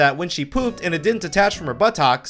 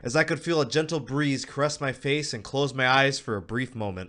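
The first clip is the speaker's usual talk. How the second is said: dreamy hush; 2 semitones lower, 5 dB quieter than usual. Real, not acted. Dreamy relief at success.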